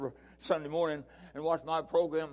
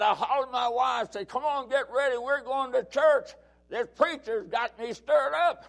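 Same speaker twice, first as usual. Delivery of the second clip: a bit higher, lively retelling; eager churchgoer gushing; lightly voiced admirer; excited fan; 6 semitones higher than usual. Man retells hollering to wife.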